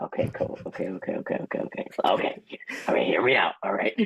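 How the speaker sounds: whispered rapid okays, then a mad scientist's announcement. Pretend. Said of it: "It's just my mad scientist impression".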